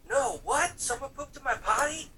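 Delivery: high squeaky kid voice, retold; imitating a bratty little boy; mock kid voice. Retelling the kid's outraged cry in a high squeak.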